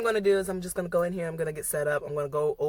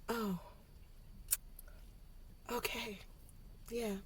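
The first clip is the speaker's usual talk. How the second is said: much softer, letting the air out; deflated relief; 7 semitones higher, 19 dB quieter, slower than usual. Retold or imitated. Realizing she was early, sheepish and much softer. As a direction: say it small and sheepish. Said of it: "I was just like".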